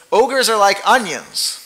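slow, loud, lightly voiced ogre; a hint of Shrek, slow and deliberate. Preacher quoting Shrek to the congregation, lightly voiced. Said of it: "where Shrek says".

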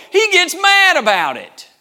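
drawn-out, high, loud preaching cry; preaching shout. Real, not acted. Preacher shouting to the church about Naaman's anger. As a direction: belt it out to the congregation.

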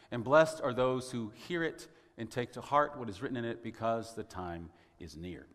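measured formal reading of the text; steady solemn reading voice; scripture reading. Acted. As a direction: read it like a lesson from the pulpit. Reads scripture aloud.

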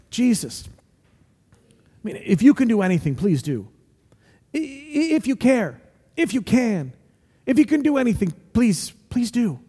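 halting, hesitant pleading; desperate father. Acted. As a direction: stumble as you beg, afraid to hope. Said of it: "the dad's desperate".

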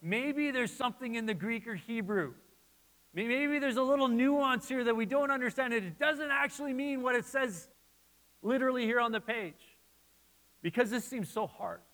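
lightly voiced eager hope; hopeful musing. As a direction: replay your own hopeful study thoughts. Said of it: "I was like".

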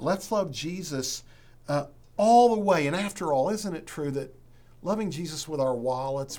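rally the congregation with measured, emphatic appeals; earnest preaching. Real, not acted. Pastor urging church to love Jesus with wallets, earnest preaching.

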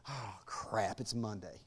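low, soft, sleepy mock complaint; a half-yawned Monday groan; groggy mock whine. Preacher mocking a groggy God waking up, low sleepy whine. Yawn and all the stuff.

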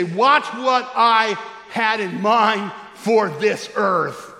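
slow voice of Jesus. Retold or imitated. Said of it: "He's gonna say".

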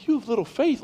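incredulous echo. Retold or imitated. Pastor retorting to Jesus's words, playful disbelief. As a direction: repeat it back like you can't believe it. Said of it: "I'm going".

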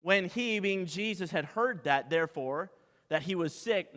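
usual speaking voice

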